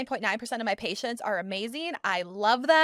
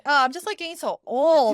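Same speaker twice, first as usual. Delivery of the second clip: louder mock-whiny moan; whiny complaining; 6 dB louder than usual. Clinician imitating a patient who feels old, loudly mock whiny. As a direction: exaggerate the patient's self-pity. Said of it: "he's so whiny and complainy".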